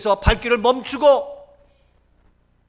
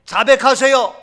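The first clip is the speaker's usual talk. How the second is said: ordinary talk, nothing marked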